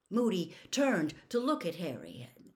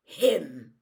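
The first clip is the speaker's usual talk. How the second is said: loud, impatient growl; Moody; 8 dB louder, much slower than usual. A narrator's reading. Moody points Harry to Crabbe behind him, growled. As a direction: growl it as a curt correction. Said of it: "Moody growled".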